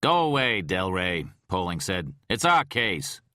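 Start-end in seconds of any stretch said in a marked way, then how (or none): 0.0-1.2 captain snapping at the agent; angry dismissal. Acted. 2.3-3.2 louder, higher, stress on our; captain defending his case; indignant claim. Acted.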